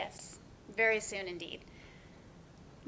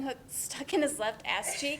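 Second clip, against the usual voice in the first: laughing; slower than usual. Acted. Sisters laughing at memory.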